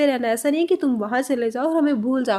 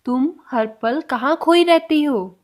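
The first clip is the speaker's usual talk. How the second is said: slow repeat; slower than usual. Shown as a demonstration. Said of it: "next sentence".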